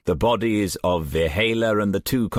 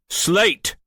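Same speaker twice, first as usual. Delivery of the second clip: sharp call; 12 semitones higher than usual. A narrator's reading. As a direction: snap a name to get attention. Commander calls name sharply.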